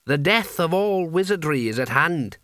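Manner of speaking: strange, compelling hat voice; talking hat. Acted. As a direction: impossible to disobey. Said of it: "something very strange about the voice".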